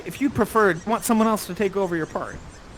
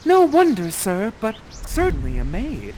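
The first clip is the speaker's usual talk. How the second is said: shy Miranda; 3 semitones higher than usual. Acted. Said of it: "you say".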